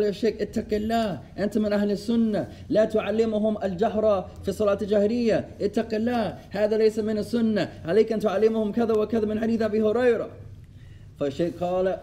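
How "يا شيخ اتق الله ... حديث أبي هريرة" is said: fast, higher-pitched scolding rebuke; retelling a brother yelling at the sheikh after prayer; mock angry shouting. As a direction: rattle it off like a brother berating the sheikh. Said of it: "وصارخ ب-، بالصوت".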